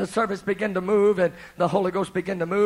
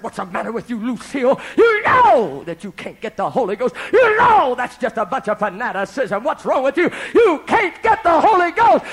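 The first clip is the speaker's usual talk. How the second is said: loud, scolding rebuke building higher; angry scolding; 4 semitones higher, 4 dB louder than usual. Retold or imitated. Vicar rebuking his wife, loud angry scolding. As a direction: scold her for her foolishness. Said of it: "he was so angry".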